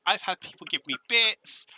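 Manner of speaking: high, excited tally of good news; thrilled, voice lifted high; super happy. Real, not acted. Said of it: "I'm super happy right now".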